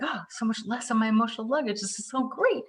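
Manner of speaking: playful imitation of a happy client; excited relief. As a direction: gush with mock joy at a lighter load. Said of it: "And then you're like".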